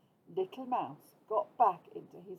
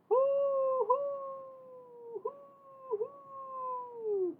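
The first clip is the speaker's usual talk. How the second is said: high, drawn-out owl hoo; owl hooting; much slower than usual. A narrator's reading. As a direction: hoot like an owl in the night. Owl sound in story.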